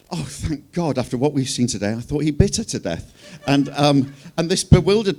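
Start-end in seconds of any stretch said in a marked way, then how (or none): 0.1-3.1 Marie. Retold or imitated. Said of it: "And Marie goes".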